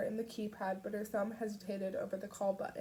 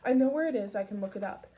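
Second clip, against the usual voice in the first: shouting; 8 dB louder, faster than usual. A narrator's reading. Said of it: "He was shouting now".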